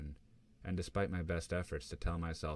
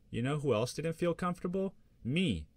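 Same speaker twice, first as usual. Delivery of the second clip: much higher, louder indignant challenge; angry retort; 10 semitones higher, 5 dB louder than usual. Acted. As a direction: throw it back at her, incensed. Angry fight with her mom.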